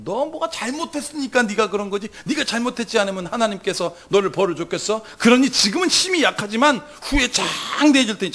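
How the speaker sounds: mild mocking lecture; sneering. Job's friend blaming Job, mildly sarcastic. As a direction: taunt him with feigned encouragement. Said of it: "이거는 비아냥거리는 말이에요".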